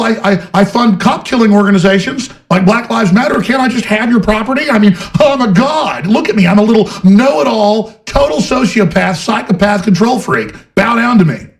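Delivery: high, shouting mock of a smug tycoon; mocking Zuckerberg. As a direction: whine and yell it like a spoiled god-king. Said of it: "He's like".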